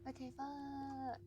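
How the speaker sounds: breathy whispered pep talk; hushed urging under the breath. Real, not acted. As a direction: whisper it to yourself to keep going. Whispering self-encouragement.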